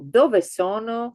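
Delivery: slow teacher's question, dove sono; slow clear question. Shown as a demonstration. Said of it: "something plural".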